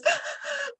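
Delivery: sharp high gasp, imitated; a sudden high intake of breath before crying; tearful gasp. Friend bursting into tears at the reading, high gasp. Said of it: "she burst out crying".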